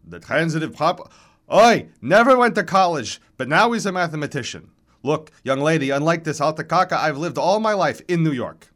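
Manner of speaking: mock your rival, then appeal to the moderator; exasperated old baritone in full complaint; hoarse old man. A narrator's reading. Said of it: "hoarse, tattered remnants of an operatic baritone".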